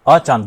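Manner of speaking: "अचानक" lightly split as अ-चानक, sound unchanged; same sound, split. Shown as a demonstration. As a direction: say "अचानक" with a small break, नक intact. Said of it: "ध्वनि नहीं टूटी". ("अचानक" को हल्का तोड़कर, नक जुड़ा रखें)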